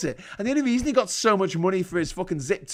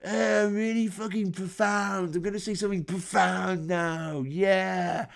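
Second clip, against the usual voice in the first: quiet, slow, dopey mock stoner drawl; stoned party guy; 3 dB quieter than usual. Mocking the stoned bore at parties, a soft dopey stoner impression. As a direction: mimic a stoned guy being profound. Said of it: "and he goes".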